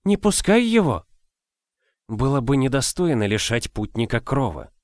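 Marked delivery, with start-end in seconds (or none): 0.0-1.0 put-on high urgent old woman; old nurse begging; old woman whispering. A narrator's reading. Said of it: "прошептала старуха". (шёпот старухи)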